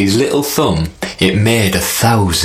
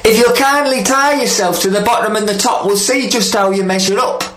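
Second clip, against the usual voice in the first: sly spider; 12 semitones higher, faster than usual. Acted. Spider tricks the snake.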